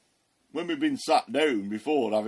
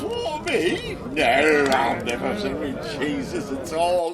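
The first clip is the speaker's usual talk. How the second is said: flustered denial; 3 semitones higher, 5 dB louder, slower than usual. Retold or imitated. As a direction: deny it in a jumpy fluster. Peter denies knowing Jesus.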